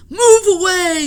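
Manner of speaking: high, very loud order; gruff yell. Acted. Sailor yells at the children to move, very loud. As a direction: bark it at the children. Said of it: "yelled a sailor".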